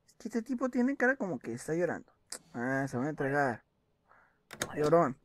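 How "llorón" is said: "Llorón" soltado fuerte, de burla; burla en voz alta. Acted. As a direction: mofarse del tipo en voz alta. Se burla del viajero lloroso. (burla fuerte al viajero que parece llorar)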